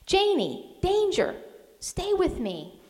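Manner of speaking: high urgent yell, slowing at the end; mother yelling a warning to her daughter. A narrator's reading. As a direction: warn the child with urgency. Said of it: "I yelled".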